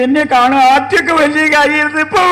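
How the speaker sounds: lightly acted high, plaintive complaint; tearful wife. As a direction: whine like a neglected wife about to cry. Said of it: "ആ, കരയണ്ട".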